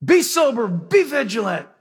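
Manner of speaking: lightly imitated order, punched at the start; mock commanding. Peter ordering believers in midstream, mock commanding. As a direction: issue it like a field commander, mildly. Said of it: "and he's commanding them".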